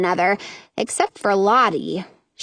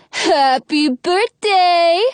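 gushing fairy; 6 semitones higher, 4 dB louder, much slower than usual. Acted. Fairy pinching cheeks.

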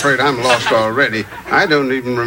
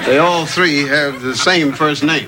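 slow realization; slower than usual. Acted.

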